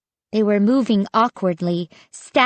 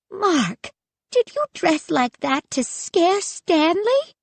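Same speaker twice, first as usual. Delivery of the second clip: demanding; 9 semitones higher than usual. A narrator's reading. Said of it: "Grandma Miriam demanded".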